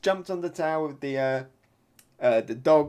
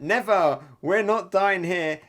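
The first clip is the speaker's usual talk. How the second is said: mock tearful yelling; 3 semitones higher, 6 dB louder than usual. Two cornered friends to a big lizard, mock tearful yell. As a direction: play at shouting through tears. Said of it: "they say as they're crying".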